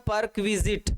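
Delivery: परक्विजिट said as one word, par-kwi-zit; par-kwi-zit, all joined up in परक्विजिट; model pronunciation. Shown as a demonstration. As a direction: clearly model परक्विजिट with a kw in the middle. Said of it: "इसका right pronounce होता है".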